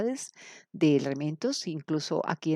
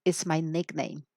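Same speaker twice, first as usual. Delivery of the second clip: slow, clear example introduction; careful classroom demo of a self-introduction; slow model dialogue; slower than usual. Shown as a demonstration. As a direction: model it slowly for learners. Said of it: "So we say".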